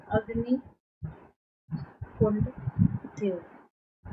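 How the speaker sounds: very slow, stretched अग्निकुंड theory; slow dictation. Shown as a demonstration. Teacher stressing the key theory term to students, very slow. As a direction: spell out each syllable for the notes. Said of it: "अग्निकुंड की theory".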